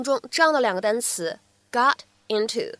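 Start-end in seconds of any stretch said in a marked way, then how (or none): 1.7-2.7 "got", then "into", unlinked; separate words. Shown as a demonstration. Teacher naming the two words before joining them, "got into" said apart. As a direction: keep a gap between "got" and "into". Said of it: "咱们连读呢".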